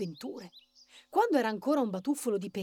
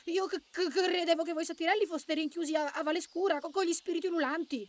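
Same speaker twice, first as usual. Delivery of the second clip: high, stuttering rabbit voice; scared little rabbit, pitched up; nervous stammer; 7 semitones higher than usual. A narrator's reading. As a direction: trip over the first sounds in fright. Frightened rabbit answers the satyr.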